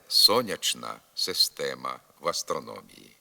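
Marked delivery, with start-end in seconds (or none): 0.1-2.0 сонячна система with a clear ч; чн pronunciation. Shown as a demonstration. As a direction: keep the ч in сонячна. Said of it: "але".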